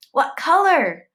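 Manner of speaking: put-on high, loud cheeky kid voice; taunting boy. A narrator's reading. Boy calling out a taunt in class, cheeky and loud. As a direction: chirp it like a cheeky schoolboy.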